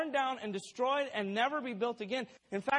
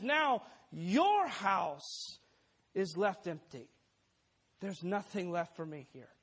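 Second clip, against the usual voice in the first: condemning hopeless tone; 2 semitones lower, slower than usual. Acted. Jesus to the temple crowd, condemning and hopeless. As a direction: pronounce the end as hopeless judgment. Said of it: "in a condemning tone, in a seemingly hopeless tone".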